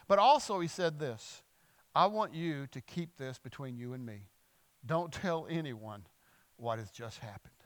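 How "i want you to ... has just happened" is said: low, hushed instruction; soft and slowing, just between two people; confidential. Retold or imitated. Jesus asks the healed man for secrecy, confidential.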